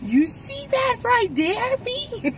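high Cajun old man imitation; cajun accent. Shown as a demonstration. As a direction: copy the Cajun drawl. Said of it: "So you got to do that".

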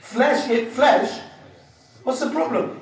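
drawn out and loud; slow emphatic repeat. Retold or imitated. Preacher repeating the punchline slowly and loudly to the crowd. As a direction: spell the joke out slowly.

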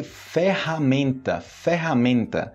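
"ferramenta" drawn out, R as breathy H; careful model "ferramenta", syllable by syllable; slow double R. Shown as a demonstration. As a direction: say "ferramenta" slowly as "fe-ha-MEN-ta". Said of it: "pronúncia do duplo R em português".

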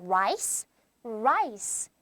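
"Rice" with the closing s clearly sounded; clear final s. Shown as a demonstration. Teacher shows the s sound, "Rice" with a clear hissed ending. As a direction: say a low "Rice", finishing on an audible s. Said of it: "스 사운드가 나게 읽어주면 돼요".

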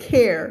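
"care" with a clearly held final R; English R in CARE. Shown as a demonstration. Teacher modelling the word for students, "care" with R. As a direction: finish "care" on a curled English R. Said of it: "ภาษาอังกฤษต้องมี R".

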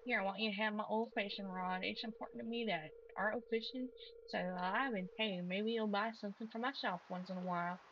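lightly voiced country accent; friendly country fisherman handing over a gift. Fisherman gives the farmer his old rod, in a light country accent. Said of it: "keep giving him country accent".

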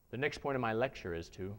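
same words with the throat opened up. Shown as a demonstration. Teacher demonstrating an open-throat lecture voice. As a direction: lift the soft palate and let it ring forward. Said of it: "All I did was opened up the back of my mouth".

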